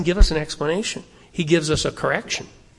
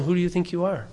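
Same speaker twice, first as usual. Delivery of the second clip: soft rebuke; 6 dB quieter, much faster than usual. Retold or imitated. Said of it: "He's saying".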